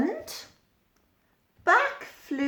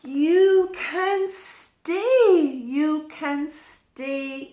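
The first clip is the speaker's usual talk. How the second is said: higher, slow and sung out; go-away bird welcoming; 4 semitones higher than usual. Acted. Go-away bird inviting the others to stay. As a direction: open your arms to new friends. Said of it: "what do you think she said".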